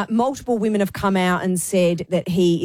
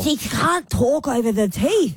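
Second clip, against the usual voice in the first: talking over big teeth; 3 semitones higher than usual. Retold or imitated. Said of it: "her tongue's tripping over them".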